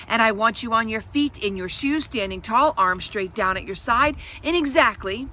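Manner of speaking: a hint of a military sitter; stern orders. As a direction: bark it like a drill sergeant.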